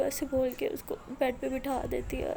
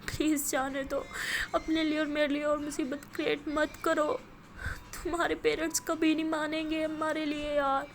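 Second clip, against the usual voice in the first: much higher, louder pleading reasoning; anguished pleading; 4 semitones higher, 3 dB louder than usual. Acted. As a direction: reason with her through pain. Aliya pleads to be let go. (درد بھری منت)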